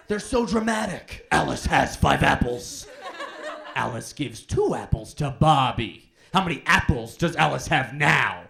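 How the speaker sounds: math problem read like a dramatic story; hammed-up storyteller reading a word problem; dramatic storytelling read. Kid reading a math problem as a dramatic story. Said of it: "reading them like they were short stories".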